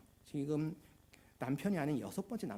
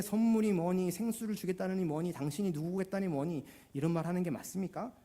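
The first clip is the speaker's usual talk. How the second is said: imitating a skeptical woman's challenge; mildly cynical; 3 semitones higher than usual. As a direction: question him with a touch of cynicism. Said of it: "약간 냉소적으로 얘기를 하는 겁니다". (약간 냉소적으로 따지듯이)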